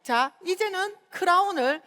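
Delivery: ordinary talk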